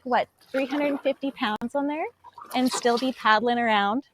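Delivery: a little winded while talking; slightly breathless, catching air; out of breath. Real, not acted. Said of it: "I don't know why I'm out of breath".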